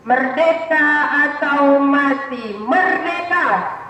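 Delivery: building to a roared rallying cry; roaring rallying speech. Real, not acted. Rally chant at Heroes Day.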